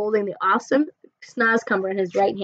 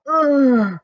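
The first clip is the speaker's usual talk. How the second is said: sputtered ugh; 4 semitones higher, 7 dB louder than usual. Acted. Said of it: "she sputtered".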